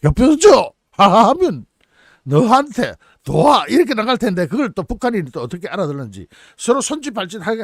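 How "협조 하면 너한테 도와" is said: put-on slow, halting Ukrainian-accented Korean; Ukrainian speaking Korean. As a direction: stumble through like a foreigner. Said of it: "우크라이나 사람은 어떻게 발음을 해요".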